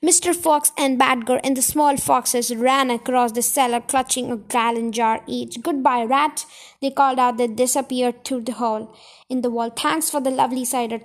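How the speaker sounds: lively read-aloud storyteller voice with voiced characters; story narration. A narrator's reading. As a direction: read it like a bedtime chapter for kids. Reads a children's chapter aloud.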